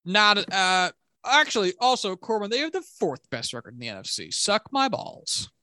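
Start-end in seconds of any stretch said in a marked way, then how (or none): 4.3-5.5 drawn out, high and slow; mock taunt. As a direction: taunt him, stretch it out. Taunting co-host after correction.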